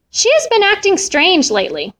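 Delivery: high-pitched, acted tearfulness; tearful. A narrator's reading. Missus Katz about her missing cat, tearful. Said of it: "Missus Katz said through her tears".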